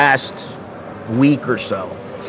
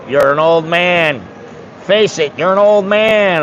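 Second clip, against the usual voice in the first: imitated nagging wife; 2 semitones higher than usual. Wife telling husband to face his age, imitated nagging. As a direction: lightly mimic a wife rubbing it in.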